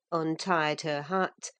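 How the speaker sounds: ordinary delivery, nothing marked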